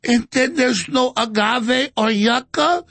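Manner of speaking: slow, rising hammed-up wail; mocking hysterical whine of a politician. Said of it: "A O C's like".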